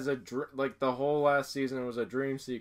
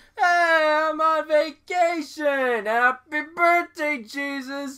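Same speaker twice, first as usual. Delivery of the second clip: put-on sloppy drunk bellow, very high, loud, shrill, slurred; 10 dB louder than usual. Retelling a favorite cartoon Christmas scene, imitating drunk Peter. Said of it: "Peter just drunkenly smashes into the thing".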